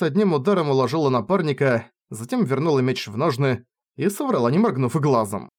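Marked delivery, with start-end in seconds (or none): none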